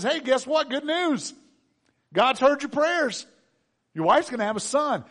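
high, upbeat announcing angel; excited good news. Acted. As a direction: burst in with great news. Acting angel bringing good news.

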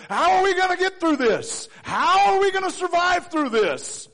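high, loud, anxious worrying; panicked prayer. Acted. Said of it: "An unbeliever's prayer says".

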